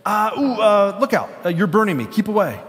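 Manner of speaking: high, pained cries of a ghost being burned; frightened ghost. Acted.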